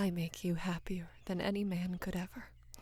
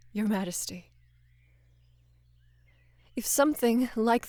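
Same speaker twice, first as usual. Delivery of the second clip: louder, pressing, worried plea; urgent plea; 2 semitones higher, 9 dB louder than usual. Acted. Knight pleading with his queen after the bandits, louder and urgent. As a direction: push the words out, begging her to stay safe.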